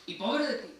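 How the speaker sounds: high, loud mock threat. Parent threatening the kid, hammed-up loud threat. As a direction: ham up an empty parental threat.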